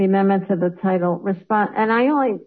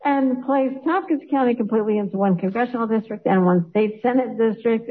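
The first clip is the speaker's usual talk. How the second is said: higher-pitched, holding in real laughter; trying not to laugh; 4 semitones higher than usual. Real, not acted. Embarrassed member finishes reading the wrong title, trying not to laugh. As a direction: push on through the reading while amused. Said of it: "I'm so laughing".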